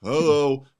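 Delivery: dull, lifeless hello; mock a bored phone greeting; boring hello. Shown as a demonstration. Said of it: "But if you're just like".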